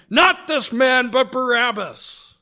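loud shouted crowd cry. A narrator's reading. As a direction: call it out as the whole crowd. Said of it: "they all cried again".

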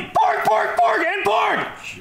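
high creature squeal; Porg call. Acted. Calling the creature name.

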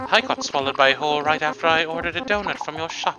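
high-pitched accusing voice; high, indignant character complaint; aggrieved game character. Acted. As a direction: lay the blame in a high voice.

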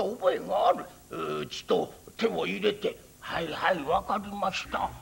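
lightly voiced creaky old priest; creaky wise old man.

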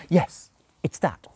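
breathy whispered yes; whispering. A narrator's reading. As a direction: whisper it conspiratorially. Aziraphale whispers agreement.

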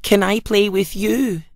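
a light hint of a hopeful pumpkin; Pumpkin's voice. A narrator's reading. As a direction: ask shyly like a little pumpkin. Pumpkin asks the sprouts.

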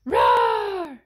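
loud shouted mock roar; dinosaur roar. Allosaur roaring at stones, loud playful roar.

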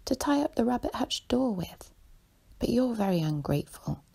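lightly acted huffy reproach; indignant. A narrator's reading. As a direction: press the complaint with a lift in pitch. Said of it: "said Phyllis indignantly".

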